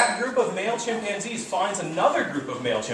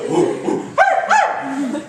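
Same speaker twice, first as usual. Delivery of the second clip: breathy pants then high, loud screams; full pant hoot; 11 semitones higher, 9 dB louder, much slower than usual. Shown as a demonstration. Lecturer performing a full chimp pant hoot for students. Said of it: "So it's a".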